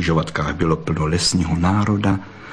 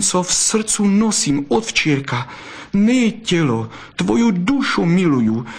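a fox declaring love, higher and ardent; lightly voiced lovesick fox; 10 semitones higher than usual. A narrator's reading. Zlatohřbítek confessing love to Bystrouška, ardent. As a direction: woo her earnestly.

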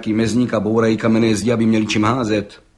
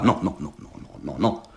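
soft, lower, fading to a breathless no, no, no; protesting; 9 semitones lower, 7 dB quieter than usual. A narrator's reading. Judge protesting the gendarme's promise of immunity, fading. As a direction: wave off the idea. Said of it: "protestoval soudce".

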